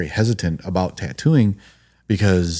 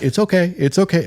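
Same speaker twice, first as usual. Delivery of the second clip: higher-pitched soothing quote; imitated reassurance; 11 semitones higher, 3 dB louder than usual. Tattooist to waking client who passed out, imitated reassurance. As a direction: lightly act out soothing someone who fainted.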